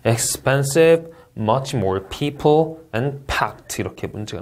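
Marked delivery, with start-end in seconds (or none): 0.1-1.1 very slow "Expensive," rising as a list item; slow list reading; list rise. Shown as a demonstration. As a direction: draw out "Expensive," and keep it up. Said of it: "나열식 문장".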